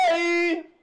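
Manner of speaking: "Ei" held high and level; open diphthong mistaken. Shown as a demonstration. Teacher showing a diphthong to reject, "Ei" held high. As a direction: hold "Ei" long on a high note. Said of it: "ei, não".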